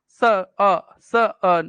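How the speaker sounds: स and अ as separate loud beats; sounds taken apart. Shown as a demonstration. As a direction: split "sun" into स, then short अ. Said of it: "सन होता है ना".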